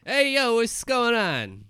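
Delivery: put-on New York accent. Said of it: "you came in with a New York accent".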